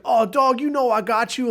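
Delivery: loud mock "oh dog" bro voice; imitating bro buddy. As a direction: ham up the goofy friend. Guy answers in bro slang.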